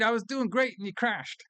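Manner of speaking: high-pitched, indignant mock outburst; mock pissed off. Host imitates Walken's character mad at the computer, mock pissed off. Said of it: "he gets all pissed out about it".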